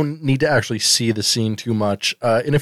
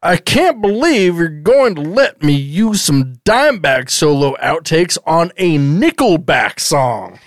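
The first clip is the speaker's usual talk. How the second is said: mock angry dad. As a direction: lecture him like a fed-up sitcom dad. Playing the scolding dad.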